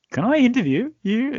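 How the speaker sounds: high-pitched mock reporter; imitating reporter. Interviewer re-enacting the actor's running reporter scene, high mock voice. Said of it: "you were in your high heels and you were running".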